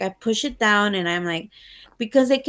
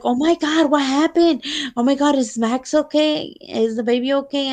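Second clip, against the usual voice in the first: higher, alarmed questions from a frightened partner; worried partner; 4 semitones higher than usual. Retold or imitated. Partner seeing her cry, asking in alarm. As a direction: imitate him panicking over her tears. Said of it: "and he's like".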